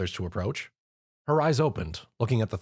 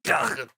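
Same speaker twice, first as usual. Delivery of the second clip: squeak; 4 semitones higher than usual. Acted. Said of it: "Tom squeaked".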